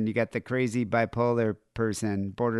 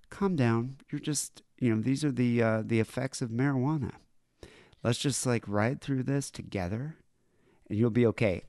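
mock soothing; 5 dB quieter than usual. Voicing guy soothing the stoned woman.

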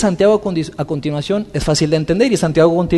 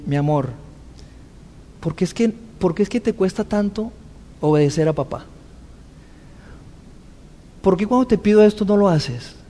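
softer, gentle father asking his daughter; calm tender question; 7 dB quieter than usual. Retold or imitated. Father sitting beside his daughter, asking gently and softly. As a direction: ease off and ask her softly. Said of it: "me relajé".

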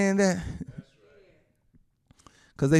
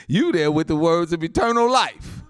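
usual speaking voice

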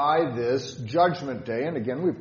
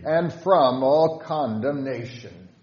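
hymn line read aloud; 3 dB louder than usual. Shown as a demonstration. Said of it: "With stanza five".

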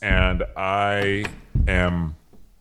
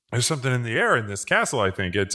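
usual speaking voice

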